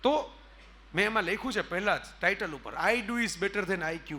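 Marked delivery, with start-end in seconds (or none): 2.7-4.1 very slow, word by word; slow title read. Acted. Speaker announcing his book's title, very slow. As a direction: spell the title out slowly for weight.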